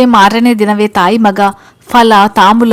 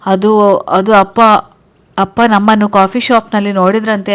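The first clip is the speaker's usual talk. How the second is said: fake crying. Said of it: "ಅಂತ ಅಳ್ತಾನೆ ಹೇಳಿದ ಹಾಗೆ ಮಾಡ್ತಾಳೆ".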